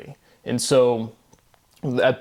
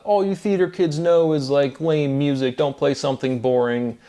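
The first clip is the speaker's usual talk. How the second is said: mock yell; 3 semitones higher than usual. Partygoer heckling the theater kid at the piano, mild mock yell. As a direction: toss off a partygoer's jeer, half-hearted. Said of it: "Somebody yells out".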